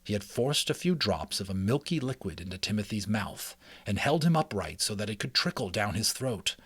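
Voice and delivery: steady, lively read-aloud narration; story narration. A narrator's reading. Reading a mouse adventure to listeners, storytelling voice. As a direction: read it like a chapter book to listeners. Reads chapter book aloud.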